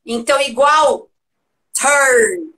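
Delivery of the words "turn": "turn" with its U as an open E. Shown as a demonstration. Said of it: "Esse U vai ter som de E".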